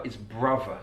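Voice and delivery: "brother" said as "bruvver", th fronted to v. Shown as a demonstration. Teacher demonstrating "brother" with th fronting as v. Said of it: "he's using the V on brother".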